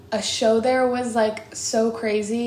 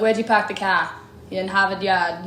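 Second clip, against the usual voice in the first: put-on a light, joking Boston accent. Joking to fans about Boston impressions, light mock Boston accent. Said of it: "does a Boston accent".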